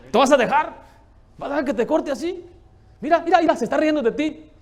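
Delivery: high, loud, urgent egging-on; goading the flesh. Acted. Acts out the flesh goading him.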